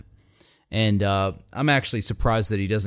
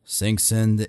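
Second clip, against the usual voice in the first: preacher coming down. Shown as a demonstration. TV preacher bringing the audience back down after the build, settling. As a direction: drop back down after the crescendo. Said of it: "then they go back down".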